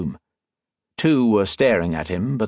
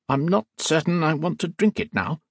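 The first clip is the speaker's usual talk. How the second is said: put-on nervous young man; 7 semitones higher than usual. A narrator's reading.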